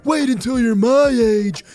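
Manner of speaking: loud, slow mock old-timer voice; mocking impression of a lecturing elder; dismissive elder. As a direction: drag it out like a condescending grown-up. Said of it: "or the classic".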